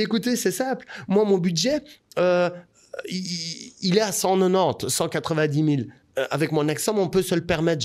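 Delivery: high, lively re-enacted announcement; natural, spontaneous. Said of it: "en mode, mais très naturel, très spontané".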